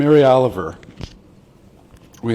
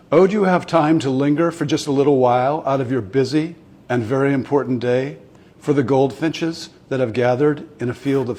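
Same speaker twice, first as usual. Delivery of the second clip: measured recital, pausing between phrases; poem reading. Acted. Host reading a Mary Oliver poem to online viewers, measured poem reading. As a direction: read the verse aloud with deliberate phrasing.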